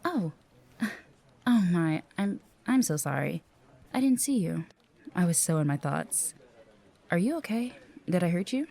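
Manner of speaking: flustered, pitch jumping up in concern; startled apology. Acted. Receptionist bumping into a coworker by accident, startled and apologetic.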